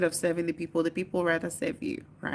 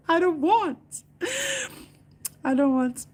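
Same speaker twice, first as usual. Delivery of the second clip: laughing refusal; 11 semitones higher, 4 dB louder than usual. Real, not acted. Refusing to be president, high laughing whine. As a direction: wail it through laughter.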